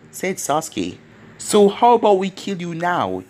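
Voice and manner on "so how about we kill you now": louder, higher challenging yell. Acted. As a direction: shout it as a charge. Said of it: "yelled Killer Bee".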